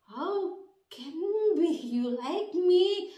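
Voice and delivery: slow, dazed question; dazed disbelief. Retold or imitated. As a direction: ask it as if stunned blank. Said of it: "Gue bengong". (bengong, bertanya pelan tak percaya)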